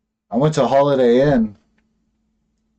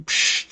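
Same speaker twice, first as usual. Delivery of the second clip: walkie-talkie static noise; 4 dB quieter than usual. Retold or imitated. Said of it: "it's like a walkie-talkie".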